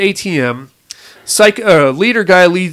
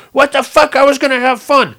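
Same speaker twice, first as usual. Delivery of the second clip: higher whiny complaint; disappointed psycho; 9 semitones higher than usual. Retold or imitated. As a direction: whine it higher, cheated of fun. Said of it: "He was all disappointed".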